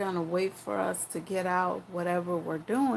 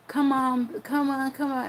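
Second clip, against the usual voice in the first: put-on nagging boyfriend; 6 semitones higher than usual.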